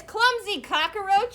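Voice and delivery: slow, loud scolding; furious rooster. Acted. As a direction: spit it out in slow fury. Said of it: "The rooster was furious".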